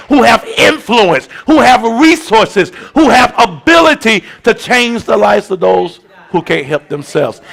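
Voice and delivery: steady, emphatic sermon teaching; preaching. Acted. Pastor explaining intercession to the church, emphatic. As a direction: hammer home the picture of the gap.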